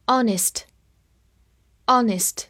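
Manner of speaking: very slow, drawn-out review reading; deliberate drill pace. Shown as a demonstration. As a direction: stretch each word for learners. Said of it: "复习一下".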